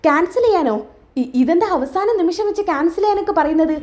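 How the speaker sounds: lightly acted astonishment; surprised questioning. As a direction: echo it back, taken aback. Acted shock at cancelling the party.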